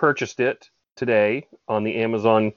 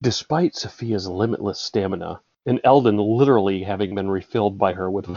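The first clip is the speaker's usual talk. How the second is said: story narration; 3 semitones lower than usual. Acted. Reading a random paragraph to the author, hushed narration. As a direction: read it aloud with understated seriousness. Starts a dramatic book reading.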